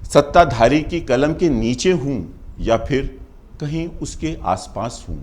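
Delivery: measured first-person verse with pauses; poem recitation. Acted. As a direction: declaim it line by line as History.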